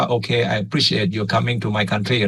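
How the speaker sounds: slow, easygoing friendly appeal. Acted. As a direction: talk to them as a friendly host. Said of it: "คุยกันแบบมิตร". (คุยกันแบบมิตร นุ่มนวล)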